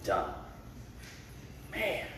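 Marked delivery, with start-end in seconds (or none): 0.0-0.3 hushed reverent praise. Retold or imitated. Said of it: "from our King".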